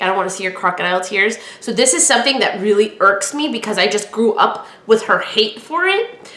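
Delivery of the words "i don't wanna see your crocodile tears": imitating mom. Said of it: "my mom has this, like, famous saying".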